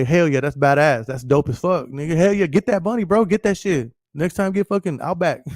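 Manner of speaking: mock hype. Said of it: "That would say".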